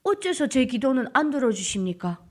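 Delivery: plain-spoken plea in Hamgyong accent; rustic Hamgyong-accented prayer; Hamgyong dialect. Shown as a demonstration. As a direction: ask God why, with Hamgyong intonation. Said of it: "이런 말씨인 거예요".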